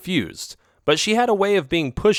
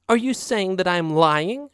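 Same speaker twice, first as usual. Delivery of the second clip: angry; 8 semitones higher than usual. A narrator's reading. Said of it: "she asked angrily".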